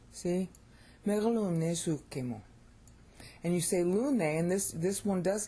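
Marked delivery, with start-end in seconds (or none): 1.1-2.4 Megalune sukemu stressed on LU and SU; correct Greek stress. Shown as a demonstration. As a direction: recite "Megalune sukemu" with SU leading, ke light. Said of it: "it's suke".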